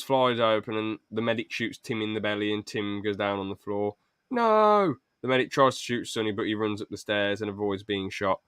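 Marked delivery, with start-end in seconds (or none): 4.3-5.0 high, drawn-out mock scream of no; dramatic cry. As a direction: cry out in hammed-up horror, pitched way up. Acted cry as Tim is shot.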